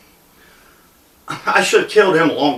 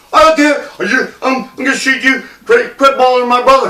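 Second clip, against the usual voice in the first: lightly voiced jittery gunman, pitched higher; mock flustered threat; 4 semitones higher than usual. Gunman defending his brother from the teller, mock flustered bluster. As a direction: imitate blustering, stumbling threats.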